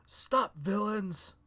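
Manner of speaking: theatrical stretched shout; hammed-up shout. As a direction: call it out slowly like an overacting hero. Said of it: "he shouts".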